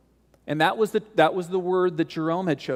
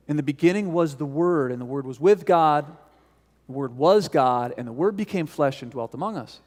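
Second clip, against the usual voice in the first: scripture recitation. Acted. Recites John prologue again, slower.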